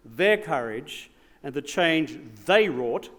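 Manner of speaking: measured, rising oratory with big builds; formal speech. Acted. Former Prime Minister addressing the gala crowd, in grand formal oratory. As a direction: deliver it like a statesman's keynote.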